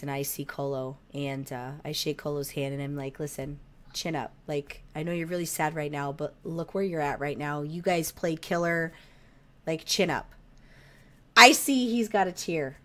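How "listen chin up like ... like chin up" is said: softer, lower pep talk; retold consoling. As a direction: gently console a sad kid, retold quietly. Consoling a sad young player.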